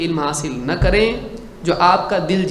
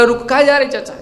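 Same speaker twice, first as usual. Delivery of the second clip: calling out; 5 semitones higher than usual. Pretend. Man chasing the uncle on a bicycle, urgent call. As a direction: shout after the uncle to stop.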